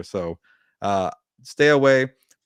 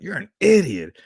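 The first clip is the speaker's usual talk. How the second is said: much higher, louder mock put-down; brother's put-down voice; 9 semitones higher, 4 dB louder than usual. Co-host imitates the brother scoffing, much higher and louder. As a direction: squeak it out like the brother mocking. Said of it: "that's how he says that".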